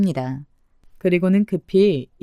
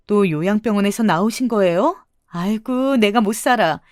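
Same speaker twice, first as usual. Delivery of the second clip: mildly raised scolding voice; mock shouting. Daughter-in-law posing as the swindler's daughter, mildly shouting. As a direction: scold with a touch of exasperation. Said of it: "소리쳤습니다".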